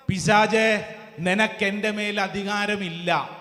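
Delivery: firm, full-voiced declaration; stern preacher's rebuke. Shown as a demonstration. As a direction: tell the devil firmly who is in charge. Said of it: "എങ്ങനെ പറയണം?".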